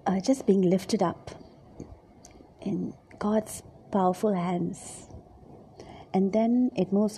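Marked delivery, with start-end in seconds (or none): 0.1-5.1 hushed whisper. Acted. Preacher guiding listeners in prayerful imagining, whispered. Guided imagining, eyes closed.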